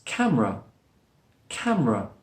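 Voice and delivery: "camera" said as two-syllable cam-ra; dropped middle schwa. Shown as a demonstration. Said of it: "the schwa sound is dropped".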